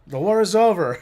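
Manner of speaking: loud, high mock Italian accent; old Italian man. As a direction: call out as a caricature old Italian. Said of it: "the old man with the espresso".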